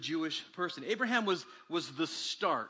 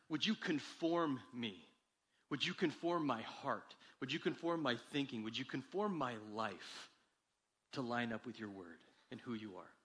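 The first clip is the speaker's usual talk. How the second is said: soft prayer; 5 semitones lower, 5 dB quieter than usual. Shown as a demonstration. Modelling prayer to God.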